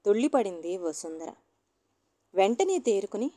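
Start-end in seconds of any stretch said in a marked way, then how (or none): none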